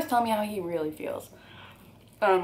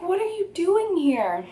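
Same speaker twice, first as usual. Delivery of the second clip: high, drawn-out incredulous demand; retold alarmed confrontation; 10 semitones higher, 4 dB louder, slower than usual. Woman confronting her ex outside her job, alarmed and incredulous. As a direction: stretch it out, pitched way up in disbelief.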